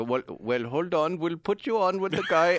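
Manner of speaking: lightly imitated Middle Eastern phone scammer; mock Middle Eastern accent, rising in pitch. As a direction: put on a Middle Eastern call-centre voice. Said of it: "angry Middle Eastern guys".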